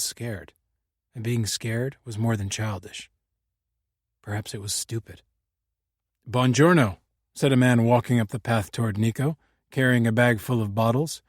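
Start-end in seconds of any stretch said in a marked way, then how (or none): 6.3-7.0 put-on Buongiorno with a German accent, hard p for the b. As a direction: say Buongiorno as a German visitor would, pongiorno. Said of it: "His German accent was strong".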